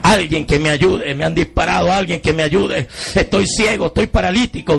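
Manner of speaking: retold call for help, voice lifted; shouting for help. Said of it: "empecé a gritar por la ventanilla".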